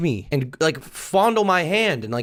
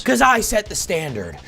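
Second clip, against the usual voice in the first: mock angry; 5 semitones higher than usual. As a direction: bark it like an offended boss. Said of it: "Why are you so angry".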